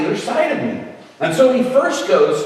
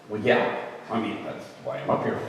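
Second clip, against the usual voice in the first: timid answer; 8 semitones lower, 10 dB quieter than usual. Retold or imitated. Young self answers preacher timidly.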